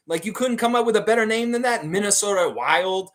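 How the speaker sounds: high, loud, incredulous jeer; mocking disbelief. Real, not acted. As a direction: scoff loudly at a ridiculous team name. Mocks the team's name.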